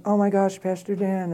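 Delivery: high, teary voice of a distraught woman; crying lady. Retold or imitated. Distraught woman begging the pastor, high teary pleading.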